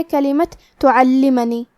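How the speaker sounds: slow, nasal-hidden noon in تعلمنی; demo of ikhfa. Shown as a demonstration. Teacher slowly models تعلمنی for students. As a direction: hide the noon of تعلمنی with ghunna. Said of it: "اخفاء کا معنی ہے چھپا دینا".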